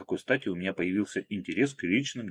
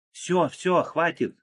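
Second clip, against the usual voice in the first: higher, louder call to the towers; shout; 9 semitones higher, 4 dB louder, much slower than usual. A narrator's reading. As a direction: shout across the field to stop. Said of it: "крикнула Марго".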